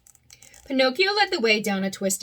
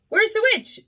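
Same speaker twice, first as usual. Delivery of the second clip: wondering aloud; 12 semitones higher, 5 dB louder than usual. Acted. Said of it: "wondered out loud".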